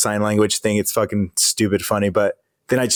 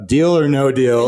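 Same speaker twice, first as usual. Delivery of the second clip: Howie Mandel; 3 semitones higher, slower than usual. Retold or imitated. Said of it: "Howie Mandel's over here. He's like".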